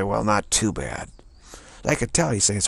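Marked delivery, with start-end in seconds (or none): 0.0-1.1 slow, drawn-out reluctant reply; reluctant answer. Retold or imitated. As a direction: answer slowly, holding back the truth. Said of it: "like, really reluctant".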